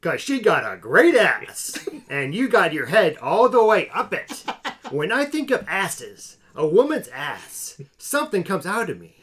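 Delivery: lightly hammed-up movie star, stretching key words; Al Pacino. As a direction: linger on each phrase like a showy actor. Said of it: "one more try, one more try".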